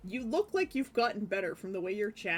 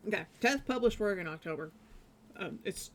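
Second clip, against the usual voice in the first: normal talking voice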